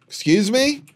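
high rising startled question; startled excuse me. Real, not acted. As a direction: react like someone just spoke. Reacting to a voice again.

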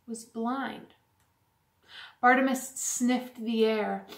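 soft, measured storybook reading; hushed-down storytelling voice; story narration for children. A narrator's reading. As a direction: read a gentle story to children, pausing between phrases.

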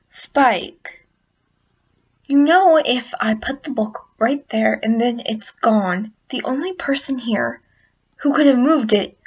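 lightly voiced exasperated scolding; pointed, impatient telling-off; Twilight Sparkle. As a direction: lecture a little helper, mildly fed up. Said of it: "That was such a terrible Twilight Sparkle".

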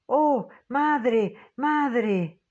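clamor agudo y fuerte, desesperado; lamento angustiado. A narrator's reading. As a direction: invoca a su madre con angustia. La señora Brink, desfallecida de horror. (la señora Brink clama angustiada)

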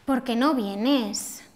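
slow, with "vienes" drawn long and its last syllable rising then falling; slow plea with a long rise-fall on "vienes"; pleading question. Shown as a demonstration. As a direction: beg your friend, stretching the end of "vienes" up and down. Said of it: "todo se concentra en la última sílaba".

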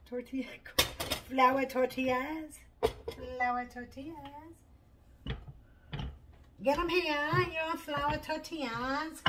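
drawn-out, singsong tortilla seller; playful street hawker's cry; mock vendor call. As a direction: hawk your wares, high and slow. Playing a street food vendor.

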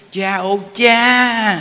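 very slow, high and loud drawn-out call; hammed-up exasperated wail; drawn-out mock wail. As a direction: stretch it out while smacking the child's head. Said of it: "để lên đầu quýnh".

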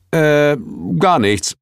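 startled, hasty denial; caught-out exclamation. A narrator's reading. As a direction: blurt it as if caught whispering. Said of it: "rief ich und wirbelte herum".

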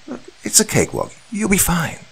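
nonchalant surgeon. A narrator's reading. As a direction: wave away his concerns, hurried. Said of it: "he nonchalantly reassured me".

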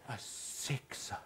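low, slow breathy six; mother hissing the bad grade; whispered verdict. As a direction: drop it like a death sentence.

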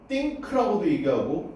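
think를 '띵크'로 된소리; think의 th를 ㄸ으로 느리게; 한국식 '띵크'. Shown as a demonstration. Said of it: "그 가운데 발음이야". (think, 한국식으로 '띵크')

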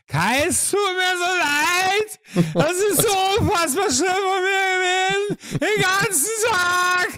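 very high, slow blubbering apology; hammed-up drunk sobbing, squealed and drawn out; drunken wailing. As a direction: wail it like a remorseful drunk. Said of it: "so besoffenen Manier".

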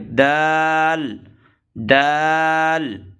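দাল drawn out long for three alif counts; three-count stretch. Shown as a demonstration. Teacher stretching দাল slowly for students. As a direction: hold দাল long on a level tone. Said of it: "তিন আলিফ".

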